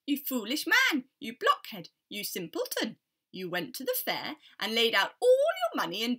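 loud scolding parrot, calling and mocking; a bird loudly berating a fool. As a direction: jeer at the foolish man from a tree. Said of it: "a parrot on a tree calling out his name".

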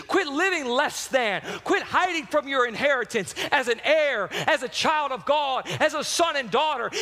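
forceful, driving sermon delivery; impassioned preaching. Acted. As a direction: preach it with urgent punch on each command.

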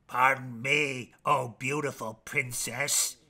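lightly voiced pitiful frog, slow and low; mild mock-pathetic plea; sad and pathetic. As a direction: plead like a pitiful little frog. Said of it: "in his most sad and pathetic voice".

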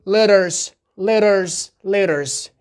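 "letters" with the middle t tapped like a quick d; American flap T. Shown as a demonstration. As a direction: say "letters" as LEDDERS, falling each time. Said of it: "بین دو حرف صدادار".

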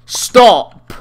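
high, loud screamed stop; raging gamer scream. Real, not acted. Yelling at opponent.

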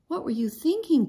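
a father demanding an answer; angry father scolding his daughter. A narrator's reading. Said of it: "Papa demanded".

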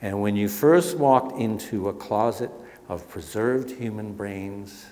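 measured, dramatic book reading; reading aloud. Acted. Author reads his anatomical museum passage, ominous.

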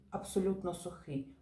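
"абсолютно сухий" as two words, emphasis on "абсолютно"; stress on first word. Shown as a demonstration. Teacher contrasting separate words for pupils, emphasis on "абсолютно". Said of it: "наголос логічний падає на перше слово".

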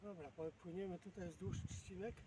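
ordinary delivery

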